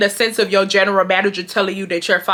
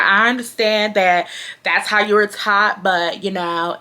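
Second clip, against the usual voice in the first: condescending manager; slower than usual. Retold or imitated. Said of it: "that's exactly how she talk".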